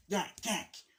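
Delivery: short repeated yapping bursts; chatty Cathy doll. Retold or imitated. Man mocks roommate as talking doll, repetitive yapping. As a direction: imitate a pull-string doll jabbering. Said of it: "chatty Cathy doll".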